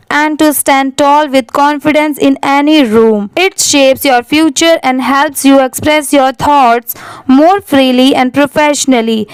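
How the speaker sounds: slow, careful read-aloud of an English passage; measured reading for students; slow paragraph reading. Shown as a demonstration. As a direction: read it out slowly like a model text for learners.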